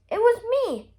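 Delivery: piped up. A narrator's reading. Mister Silly pipes up proudly to the king and crowd. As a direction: chirp it out proudly. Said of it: "piped up Mister Silly".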